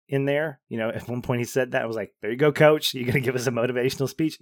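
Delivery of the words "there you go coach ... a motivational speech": a scoffing cheer at the coach, hurried at the end; sarcastic mock cheer. Mocking the dad's pep talk.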